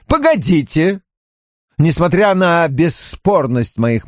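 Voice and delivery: lightly voiced eager dealmaker; a hint of an insistent businessman; persuasive briber. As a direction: press the offer with mild urgency. O'Neill offers a bribe.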